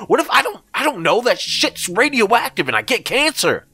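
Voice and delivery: screaming in rage. A narrator's reading. Narrator exploding at Greg for tricking him, screaming. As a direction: scream the accusation into his face. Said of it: "I screamed at him".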